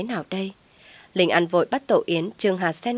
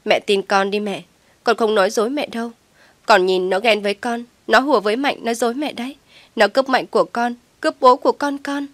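higher, louder begging; tearful pleading; 4 semitones higher, 4 dB louder than usual. Acted. Daughter begs mother to believe her, tearful. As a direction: plead through tears.

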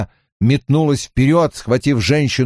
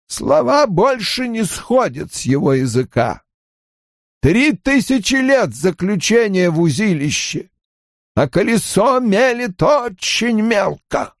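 Aginor; 9 semitones higher than usual. A narrator's reading. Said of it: "сказал старик".

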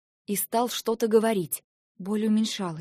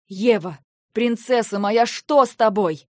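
worried father; 7 dB louder than usual. Acted. Father comforting crying daughter.

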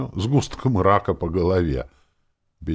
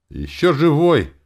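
much higher, louder amazed cry; can't believe the dead man breathes; astonished; 11 semitones higher, 8 dB louder than usual. A narrator's reading. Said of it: "проговорил он изумлённо". (изумлённый возглас, гораздо выше и громче)

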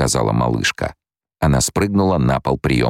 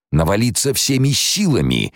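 hoarse cry; 9 semitones higher than usual. A narrator's reading. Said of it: "прохрипел барон".

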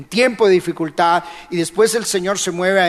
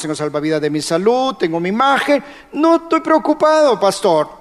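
smug self-assurance; 3 semitones higher than usual. Pretend. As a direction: play the cocky one who needs nobody. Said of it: "estará diciendo". (burla ligera de alguien confiado, cada vez más agudo)

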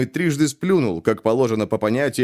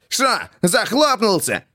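growled jeer; 9 semitones higher, slower than usual. A narrator's reading. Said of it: "рычал".

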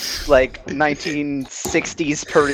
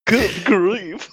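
Charlie Brown sigh; 4 semitones higher than usual. Retold or imitated. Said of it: "like Charlie Brown".

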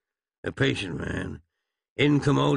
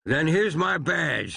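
grandly; 7 semitones higher than usual. A narrator's reading.

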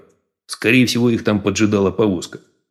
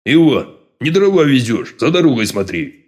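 shouting at the driver; 4 semitones higher than usual. A narrator's reading. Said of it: "прикрикнул подполковник на ездового".

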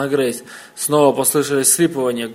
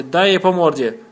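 urging yell; 4 semitones higher, 5 dB louder than usual. A narrator's reading. Billy cheering on fight.

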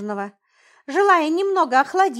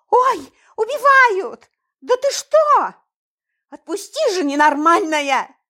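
high, loud panicked shriek; screaming in fright; 8 semitones higher, 6 dB louder than usual. A narrator's reading. Girl grabbed by the neck, panicked scream. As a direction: scream for your life as she grabs you. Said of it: "закричала девушка".

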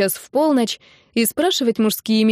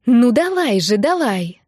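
eager urging; 3 semitones higher, slower than usual. Acted. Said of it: "азартно подгоняла".

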